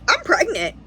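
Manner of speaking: high-pitched imitation of crying news; mildly acted tearful announcement; retold tearful confession. Daughter calling mother and stepdad, mock-tearful confession. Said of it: "I'm crying".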